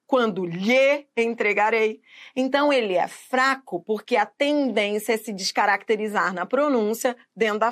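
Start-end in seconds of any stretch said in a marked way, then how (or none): 0.1-2.0 "lhe" slowly with a clear open-mouthed e; over-pronounce "lhe" with a full e, not "lhi"; careful, slow "lhe"; full vowel in lhe. Shown as a demonstration. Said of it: "raramente as pessoas vão falar".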